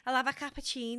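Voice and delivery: Liverpool Scouse attempt; Scouse accent. Shown as a demonstration. Guest having another go on request, Scouse accent. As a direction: try it in Scouse. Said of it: "Liverpool Scouse".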